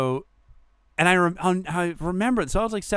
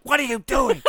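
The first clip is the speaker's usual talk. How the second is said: high-pitched mock scolding; imitated shocked wife; 11 semitones higher than usual. Wife catching her husband yelling in the lot, appalled. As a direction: put on a high voice of disbelief.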